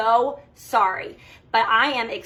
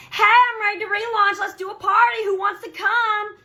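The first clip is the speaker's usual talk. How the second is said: much higher, hammed-up cheery party pitch; mock bubbly announcement; 9 semitones higher, 4 dB louder than usual. Coach mocking a seller who pops up with a party: hammed-up cheery squeal. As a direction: gush it out like a fake-happy seller, slowing at the end.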